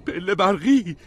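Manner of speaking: put-on high, loud boy's exclamation; shouting. A narrator's reading. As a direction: yell out the discovery. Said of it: "ادموند داد زد".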